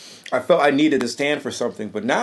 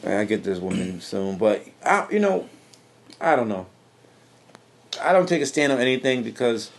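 talking while chewing; words round a bite of food; mouth full; 3 semitones lower than usual. Real, not acted. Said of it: "coming back into the room with a mouthful of food".

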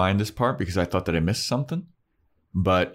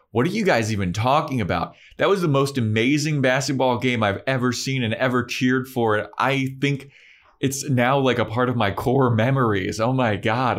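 higher, emphatic mock gushing; 5 semitones higher than usual. Cordelia raving about the basketball game, gushing. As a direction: act out breathless, over-the-top enthusiasm.

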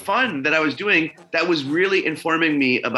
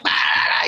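imitated drugged-out noise. Imitates being high on drugs.

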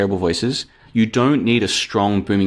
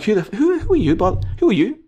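indignant challenge; 11 semitones higher than usual. Retold or imitated.

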